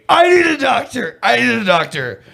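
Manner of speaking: high-pitched mock yell for help; imitated scream. Fan retelling Ray's plea after the eye injury, mock screaming. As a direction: act out a wrestler's panicked scream, starting high and easing down. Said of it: "Ray starts screaming".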